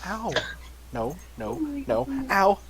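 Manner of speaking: yelped in real pain, high. Real, not acted. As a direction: cry out as claws dig in. Dog claws the speaker.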